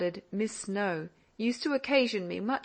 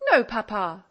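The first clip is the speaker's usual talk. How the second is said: a mild indignant protest, a touch louder; 6 dB louder than usual. Acted. Daughter objecting to papa's teasing, mildly indignant. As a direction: cut papa off, offended. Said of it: "interrupted she indignantly".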